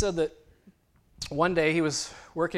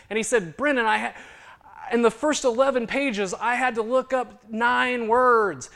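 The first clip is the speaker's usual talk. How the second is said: much higher and louder storytelling; animated retelling; 10 semitones higher, 9 dB louder than usual. Retold or imitated. Old man telling Brennan his story, animated. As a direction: push it up, bright and lively.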